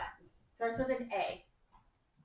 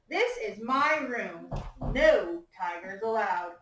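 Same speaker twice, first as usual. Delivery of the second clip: put-on slow, clear read-aloud for children; story reading; 2 semitones lower, slower than usual. A narrator's reading. Teacher reads picture book aloud.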